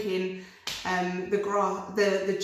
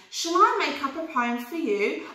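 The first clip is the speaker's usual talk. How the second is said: higher, friendly offer; smiling sheep; 6 semitones higher than usual. Acted. Sheep offering the rabbit a poem, higher and friendly. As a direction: offer kindly with a smile. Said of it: "She smiled at the rabbit".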